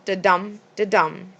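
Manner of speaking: "da-dum" with light DA, stressed DUM; iambic rhythm. Shown as a demonstration. Teacher showing the natural rhythm of iambic pentameter, "da-DUM" stressed second. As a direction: tap out "da-dum", leaning on the second syllable. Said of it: "rhythm of iambic pentameter".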